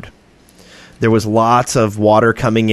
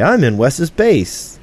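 slow announced message; 5 semitones higher, slower than usual. Pretend. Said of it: "You should be able to say".

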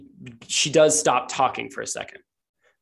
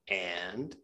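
low, hushed and expectant; very soft prompt; 5 semitones lower, 9 dB quieter than usual. Acted. Sylvie prompting from behind the wall, very softly. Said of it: "very, very softly Sylvie say".

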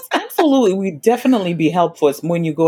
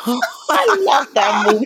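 giggling while speaking; laughing; 6 semitones higher than usual. Real, not acted. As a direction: say it through a laugh.

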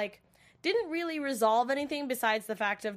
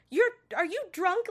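high-pitched mock disbelief; incredulous question; 9 semitones higher, 4 dB louder than usual. Waverly seeing her girlfriend turn up drunk, incredulous. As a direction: imitate a startled, accusing question.

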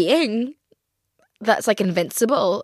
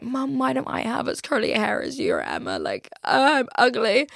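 put-on whiny child; 4 semitones higher than usual. Child whining to mum.

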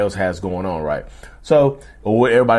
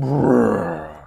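growl. Retold or imitated. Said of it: "they start growling".

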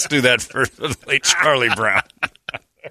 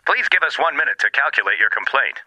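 phone menu voice; 4 semitones higher than usual. Acted.

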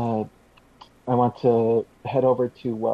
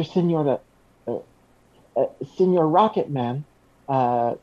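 flustered hero voice; 6 semitones higher than usual. Acted. Flustered hero answers praise.

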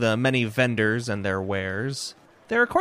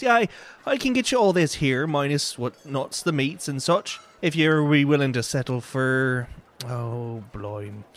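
folksy vendor pricing; 5 semitones higher than usual. Acted. Vendor quotes his price.

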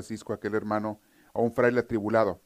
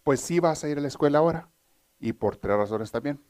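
mother's punchline; 3 semitones higher than usual. Retold or imitated. Joke mother answers her forty-year-old son, firm. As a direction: lay it out to him like a no-nonsense mom. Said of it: "la mamá le contesta".

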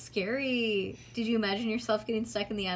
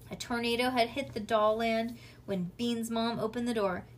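ordinary delivery

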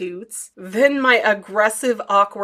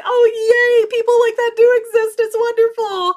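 very high, louder happy squeal; delighted gushing; 13 semitones higher, 6 dB louder than usual. Pretend. Vlogger imagining meeting a silent fan, high and gushing. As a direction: gush with giddy delight. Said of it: "I could be like".

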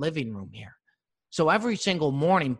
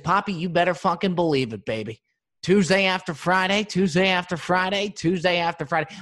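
fired up; 3 semitones higher, 5 dB louder than usual. Retold or imitated. Fired-up reply, chanting schedule.

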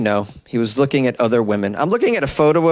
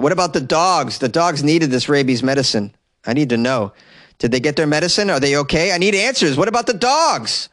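mock outrage; 2 semitones higher than usual. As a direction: demand answers in pretend indignation, pitch climbing to the end. Mock-outraged demand for news on dogs.

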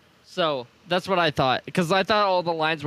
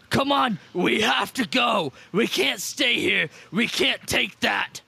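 drawn-out shout to a friend; urgent yell; 2 semitones higher, slower than usual. Acted. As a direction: yell it slowly, urging him to flee. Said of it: "and I yell to Diggle".

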